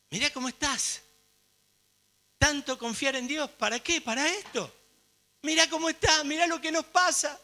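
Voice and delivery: exasperated wife's nagging; Job's wife. Acted. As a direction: complain to a suffering husband. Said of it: "Esta sí es de la mujer".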